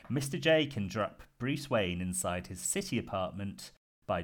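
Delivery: measured storytelling with punched openings; scripted pitch read. Real, not acted. Host pitching his Batman scheme to the panel, narrated read. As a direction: present an outlandish scheme like a prepared story. Reads out prepared villain plan.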